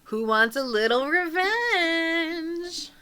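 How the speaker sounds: high, long-drawn singsong question; teasing temptation. Acted. Tempting a prisoner with revenge, teasing. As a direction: dangle it slowly in a high lilt.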